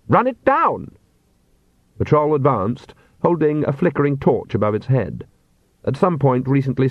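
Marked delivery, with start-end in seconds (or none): 0.1-0.9 slow, haughty voice from the coach; an impatient noble demanding answers; aristocratic vampire. A narrator's reading. Master orders Igor.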